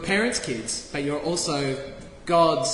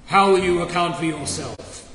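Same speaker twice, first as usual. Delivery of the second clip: mock God voice; 2 semitones lower than usual. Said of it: "he doesn't speak like that".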